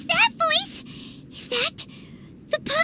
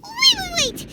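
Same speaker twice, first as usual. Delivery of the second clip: alarmed cry; 5 semitones higher, 3 dB louder than usual. Acted. Paimon panics at duel challenge.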